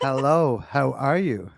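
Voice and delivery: a plain, friendly Canadian hello on request; his own Canadian accent. Pretend. Guest records a greeting in his Canadian accent. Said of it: "in his accent".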